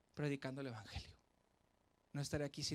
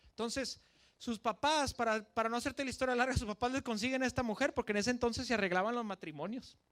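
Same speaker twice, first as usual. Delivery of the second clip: higher and louder, faster in the middle; animated telling; 5 semitones higher, 5 dB louder than usual. A narrator's reading. Preacher retelling Samson, high and lively. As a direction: tell it with lively energy.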